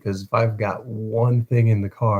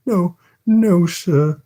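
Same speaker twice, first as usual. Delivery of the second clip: put-on high, pleading child cry; sobbed plea; 8 semitones higher, 4 dB louder, much slower than usual. A narrator's reading. Orphan sobs to the beadle, high and pleading. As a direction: beg him, voice up high. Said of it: "sobbed Oliver".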